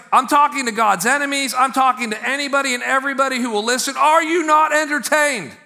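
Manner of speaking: defiant, high-pitched proclamation building to a shout; celebratory defiance like a gladiator addressing the crowd; Paul. Acted. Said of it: "defiant tone of Paul".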